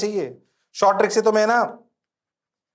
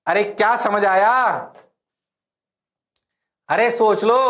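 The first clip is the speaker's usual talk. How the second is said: mock challenge; 4 semitones higher, 4 dB louder than usual. Mock challenge to students' claimed understanding.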